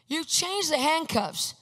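high, slow imitated complaint; mock-outraged accusation; mad mother. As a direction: insist indignantly, stretching each word. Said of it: "she's actually mad".

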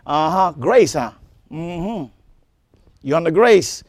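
low, soft mocking devil voice; low taunting tempter. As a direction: sneer it like the devil whispering doubt. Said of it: "he'll say".

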